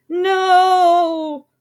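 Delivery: high, loud horrified scream. A narrator's reading. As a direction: shriek in horror. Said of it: "The prince screamed".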